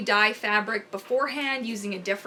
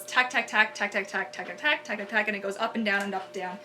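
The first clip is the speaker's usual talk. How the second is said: imitated stitching sound; 2 semitones lower than usual. Shown as a demonstration. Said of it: "one that goes".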